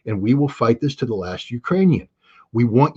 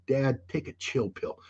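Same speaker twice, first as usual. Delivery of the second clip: put-on kids telling dad to relax; 9 dB quieter, slower than usual. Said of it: "my kids have used it with me".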